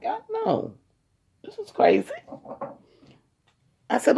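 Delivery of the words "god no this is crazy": panicked cry. Retold or imitated. Panicking after mom's reaction.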